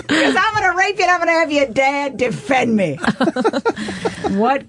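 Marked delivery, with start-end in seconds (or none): 0.1-3.0 mocking friend voice. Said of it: "And he goes".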